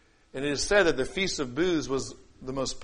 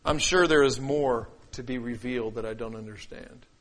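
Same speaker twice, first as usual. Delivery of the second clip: lower, measured humility; humble; 4 semitones lower than usual. Shown as a demonstration. Preacher showing how humility sounds, humble and sincere. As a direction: admit your limits in a lowered voice. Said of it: "here's how humility sounds".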